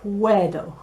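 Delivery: "Puedo" as PWE-do; built-up pronunciation. Shown as a demonstration. Teacher assembling the sounds for learners, PWE-do "Puedo". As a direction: join p, where and dough into "Puedo". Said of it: "that's going backwards".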